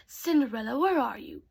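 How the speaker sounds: calling out. Acted. Stepmother calling out.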